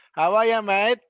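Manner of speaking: high, loud Aussie "How are ya, mate"; Australian, R dropped. Shown as a demonstration. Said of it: "don't even pronounce the R".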